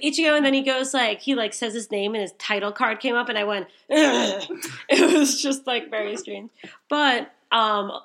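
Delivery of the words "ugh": loud strangled ugh; weird excited grunt. Retold or imitated. Fan reacting to Ichigo's title card, loud strangled grunt. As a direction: blurt a strange overwhelmed grunt. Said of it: "The weirdest noise came out of me".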